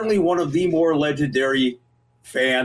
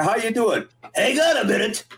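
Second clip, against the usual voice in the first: imitating phone voice; 6 semitones higher than usual. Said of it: "I said".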